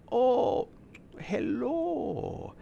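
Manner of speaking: soft, breathy charmer's hello; suave greeting. Retold or imitated. Mocking the suave coworker's quiet hello. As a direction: purr it like a ladies' man.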